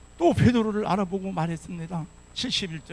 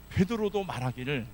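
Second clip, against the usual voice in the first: ordinary delivery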